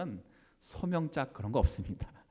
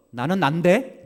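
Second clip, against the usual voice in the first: 나는 난데 louder, rising and indignant; with attitude; 5 semitones higher, 12 dB louder, slower than usual. Shown as a demonstration. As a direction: snap it back with attitude. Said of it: "감정을 실어서".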